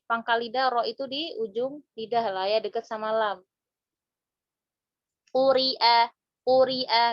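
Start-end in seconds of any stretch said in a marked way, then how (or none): 5.3-7.0 quri'a said louder, with clear qaf and ra; louder demo word. Shown as a demonstration. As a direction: demonstrate quri'a crisply and louder. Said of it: "nggak susah nyebutnya ya". (quri'a diucapkan lebih keras dan jelas)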